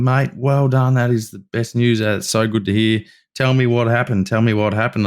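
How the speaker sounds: imitating a thrilled mate, pitch a little up; retold eager praise; excited congratulations. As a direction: gush mildly, like a pleased new friend. Younger brother congratulating him, arm around.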